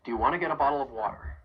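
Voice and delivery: "Do you wanna get a bottle of water" run together quickly; fast connected speech, "wanna" and "get a" joined; linked question. Shown as a demonstration. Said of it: "build on that phrase that we were practicing".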